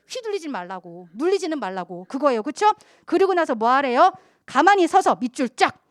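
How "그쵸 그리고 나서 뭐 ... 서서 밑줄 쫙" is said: ordinary talk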